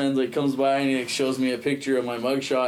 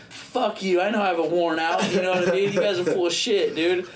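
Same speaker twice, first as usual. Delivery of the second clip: higher-pitched mock indignation; retold defiance; 5 semitones higher than usual. Suspect telling cops he won't believe them, defiant. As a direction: argue back, worked up but not shouting.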